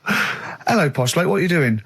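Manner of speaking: high, slow, hammed-up surprise at the door; lightly voiced sketch host; mock doorbell sketch. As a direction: play the panto host greeting the caller. Acting out Rockbusters doorbell sketch.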